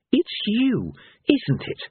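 high-pitched, growled accusation. A narrator's reading. Cohen recognises a god in the crowd, growling. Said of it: "he growled".

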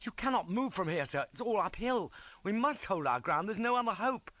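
high, urgent shouted protest; shouting sense. A narrator's reading. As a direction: plead loudly with a reckless superior. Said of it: "Beatson tried to shout sense into him".

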